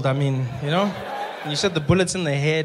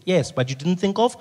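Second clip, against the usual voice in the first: punchline; 6 dB louder, slower than usual. Acted. Punchline retort to mom.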